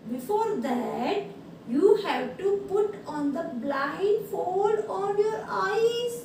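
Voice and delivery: very slow, emphatic letter reading; drawn-out classroom read-aloud. Real, not acted. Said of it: "now I will read this".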